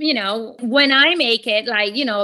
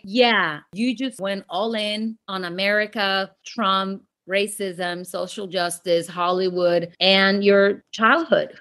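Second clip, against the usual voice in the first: lower, softer, dry husband voice; deadpan husband; 6 semitones lower, 3 dB quieter, slower than usual. Retold or imitated. Husband listing her rant back to her, low and deadpan. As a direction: list it off flat and unimpressed, lower.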